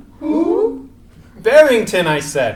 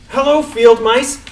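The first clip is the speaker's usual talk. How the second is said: calling out. Acted. Rabbit calls down to mice.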